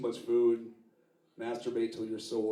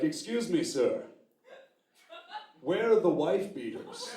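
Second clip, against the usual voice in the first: polite shopper; 6 semitones higher than usual. Retold or imitated. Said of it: "be like".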